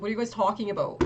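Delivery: quick, exasperated question; mildly mad, rushed demand; retold exasperation. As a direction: replay your annoyance at the group, fast. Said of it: "I actually got so mad".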